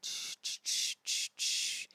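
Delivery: soft unvoiced shushing fading away. Shown as a demonstration. Demonstrating ghosting someone with a fading shush. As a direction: shush it out to nothing. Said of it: "do that fade out".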